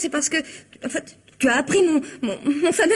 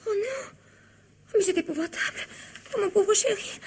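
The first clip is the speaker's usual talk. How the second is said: dismayed hush; 4 semitones higher, 7 dB quieter than usual. Acted. Wife learns doctor is coming.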